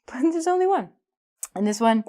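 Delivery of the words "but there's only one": higher-pitched, starting on a laugh. Real, not acted. Teacher on students' common confusion, laughing as she speaks. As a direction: laugh into the words.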